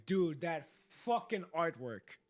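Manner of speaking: slow, loud amazement; amazed. Real, not acted. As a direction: marvel at it out loud. Amazed at the art.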